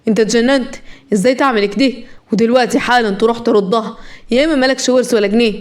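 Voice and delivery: mildly angry elder scolding; a touch of stern anger; irritated grandfather. Acted. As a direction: order him with restrained temper. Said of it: "والجد قال بعصبية".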